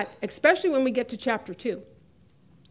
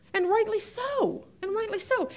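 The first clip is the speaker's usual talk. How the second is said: emphatic agreement; 9 semitones higher, 3 dB quieter than usual. Real, not acted.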